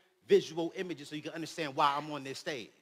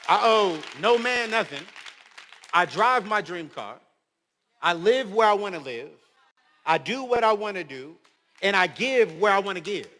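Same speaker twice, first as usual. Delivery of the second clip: proud declaration; 6 dB louder than usual. Real, not acted.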